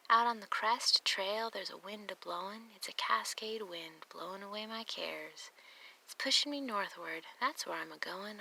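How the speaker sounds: lilting, rhythmic verse reading; poem reading. Acted. Hiker sharing a walker's sweet, happy poem, read in rhythmic verse. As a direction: recite a happy trail rhyme in an easy swing.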